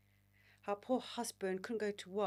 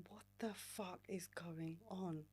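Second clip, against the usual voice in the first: slow, breathless whisper to herself; bewildered whisper; 9 dB quieter, slower than usual. Retold or imitated. Crying on a first date, whispering to herself. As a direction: whisper it slowly, lost in tears. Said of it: "And I'm like".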